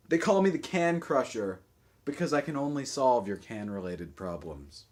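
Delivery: emphatic verse delivery, falling at line ends; poetry reading. Acted. Poet reads as the can crusher to its owner, declaimed. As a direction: declaim it like a spoken-word poem. Reads own poem aloud.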